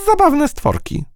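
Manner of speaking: very high little fly voice with drawn-out z; buzzing fly. Acted. Fly comments from behind the mouse's back, buzzing. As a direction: buzz the z like a fly.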